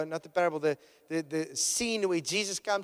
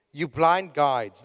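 slow, louder, denouncing blind guides; stern rebuke; 7 dB louder, much slower than usual. Retold or imitated. Jesus rebuking the Pharisees, slow loud denunciation. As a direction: preach the rebuke slow and heavy.

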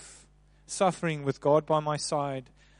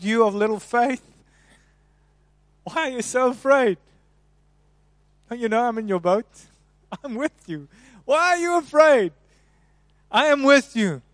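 a loud, higher gentle rebuke; lightly voiced Jesus; 6 semitones higher, 5 dB louder than usual. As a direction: chide the frightened disciples kindly.

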